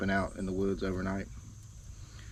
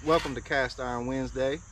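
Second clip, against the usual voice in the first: slightly winded; out of breath; 3 semitones higher than usual. Real, not acted. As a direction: speak while catching your breath. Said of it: "I just need to catch my breath".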